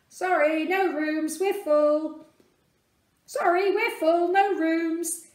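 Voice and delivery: loud, blunt innkeeper brush-off; firm refusal. Acted. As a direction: turn them away briskly. Innkeepers turning Joseph away.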